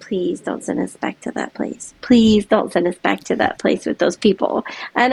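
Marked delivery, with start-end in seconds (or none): 0.1-1.9 hushed, pleading whisper. Retold or imitated. Girls begging their mom not to go back, whispered. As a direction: whisper it like a scared child begging. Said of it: "my girls are like".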